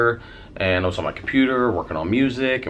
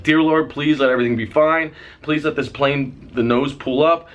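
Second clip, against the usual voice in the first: urgent prayer, raised in pitch; retold pleading prayer; 4 semitones higher than usual. Passenger holding strangers' hands as plane falls, retold pleading. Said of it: "and I'm like".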